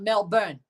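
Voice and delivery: "Melbourne" said as MEL-burn; "Melbourne" with a full "burn" ending; American pronunciation. Shown as a demonstration. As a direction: sound the r in "Melbourne". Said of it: "it's Melbourne".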